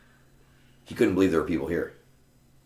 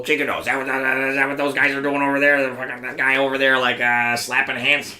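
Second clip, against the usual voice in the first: higher, louder scoffing questions; mocking disbelief; 8 semitones higher, 4 dB louder than usual. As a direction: act out a dismissive tough guy's scorn. Acting out Tony's dismissive first introduction.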